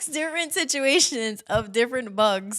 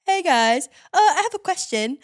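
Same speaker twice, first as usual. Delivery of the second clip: higher-pitched imitated snail; snail newcomer; 6 semitones higher than usual. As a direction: pipe up as the snail with a question. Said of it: "the snail comes".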